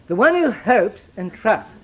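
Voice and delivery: drawn out, each word weighed; deliberate and measured; slow emphasis. Shown as a demonstration. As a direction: lay it down slowly. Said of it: "let's be clear about this".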